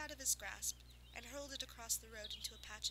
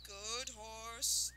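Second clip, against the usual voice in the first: panting. Acted. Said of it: "the fat man panted".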